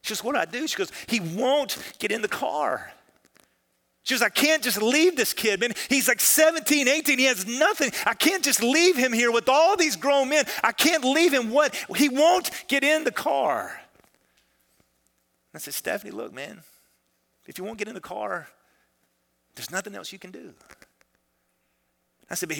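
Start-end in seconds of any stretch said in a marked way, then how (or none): 0.2-0.7 higher, helpless imitation of a crying caller; retold weeping. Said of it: "she calls and she's weeping". 1.1-2.9 higher, distressed imitation; retold weeping. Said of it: "she calls and she's weeping". 4.2-13.8 high, loud imitation of a distraught caller; retold tearful pleading. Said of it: "she calls and she's weeping". 15.7-20.5 soft, resigned reassurance; retold gentle consoling. Pastor consoles distraught caller in story.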